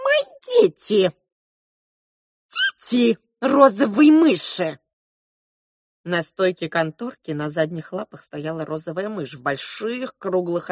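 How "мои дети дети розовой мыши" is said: very high squeaky shout; proud mouse shout. A narrator's reading. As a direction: declare them hers at full voice. Pink mouse proclaims loudly.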